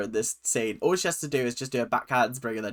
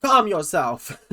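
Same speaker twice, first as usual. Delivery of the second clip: higher, playful telling-off; mock scolding, pitched up; mock confrontational; 6 semitones higher, 4 dB louder than usual. Telling Melissa off for getting confrontational, mock scolding. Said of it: "We're getting confrontational again".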